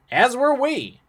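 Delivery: "were" pushed high and loud; stress on WERE. A narrator's reading. James answers the passing traveler, stressing "were". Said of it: "Emphasis on were".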